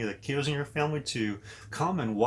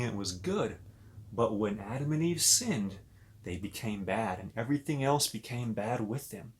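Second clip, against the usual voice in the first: put-on storybook narration for little kids; reading to children. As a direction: read it like a bedtime story to children. Reads Bible story to kids.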